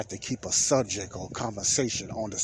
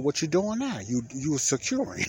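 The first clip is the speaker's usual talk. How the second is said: high-pitched sarcastic question, easing down; 5 semitones higher than usual. Retold or imitated. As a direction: retell a mildly sarcastic comeback. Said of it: "I said it in a kinda sarcastic way".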